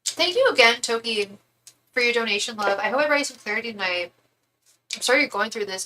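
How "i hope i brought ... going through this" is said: talking while chewing; words round a mouthful of food; chewing noisily. Real, not acted. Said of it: "I'm sorry I'm eating right now".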